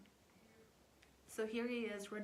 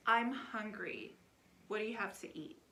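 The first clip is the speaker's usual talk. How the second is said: put-on kid whine; 5 dB louder than usual. Daughter whining again.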